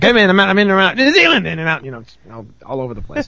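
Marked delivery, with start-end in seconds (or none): 0.0-1.8 mock hyper impression, dropping back at the end; mock erratic guest. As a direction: pitch jumps up mid-quote. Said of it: "it's like".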